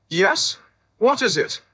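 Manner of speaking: a hint of a stern schoolmaster; lightly voiced loud teacher. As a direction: bark it back like a teacher trying to sound unafraid. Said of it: "in a very loud teacher-type galosh".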